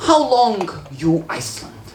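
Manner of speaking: put-on halting foreign-accented English; broken English. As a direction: imitate someone with very little English, foreign accent. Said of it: "she knows very little English".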